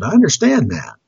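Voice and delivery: patient, coaxing husband; gentle mock-patient reasoning; very loving. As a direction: reassure your wife, lightly acted. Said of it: "he very lovingly".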